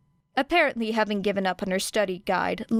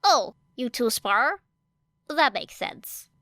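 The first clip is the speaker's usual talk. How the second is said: higher, slow and thoughtful; slow musing girl; 4 semitones higher, slower than usual. A narrator's reading. Asui realizing the two spar, slow and thoughtful. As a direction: muse it out slowly.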